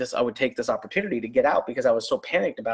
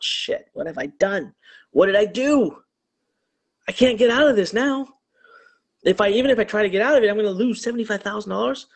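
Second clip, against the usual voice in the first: frantic inner worrying, pitched up; retold panic; 3 semitones higher, faster than usual. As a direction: voice jumps higher with rising alarm. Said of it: "I start to panic".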